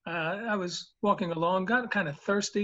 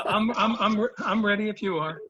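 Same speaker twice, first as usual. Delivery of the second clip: laughing; 3 semitones higher, 4 dB louder than usual. Real, not acted. Laughs while answering host.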